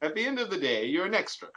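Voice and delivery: laughing. Real, not acted. Laughing punchline about being extra.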